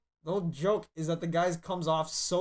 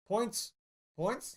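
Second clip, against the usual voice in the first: game show host voice; 6 semitones higher than usual. Retold or imitated. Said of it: "like, Chris Hardwick's show?".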